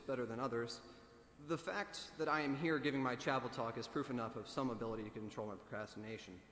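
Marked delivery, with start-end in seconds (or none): 3.9-5.0 slight emphasis on "some" before "ability"; stress on "some". Real, not acted. Student admitting limited control to chapel audience, stressing "some". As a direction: lean lightly on the word "some". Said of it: "Emphasis on the word some".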